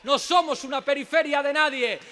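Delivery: loud, proud rallying cry; defiant shout. Real, not acted. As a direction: raise the voice in defiance. Defiant climax of political speech.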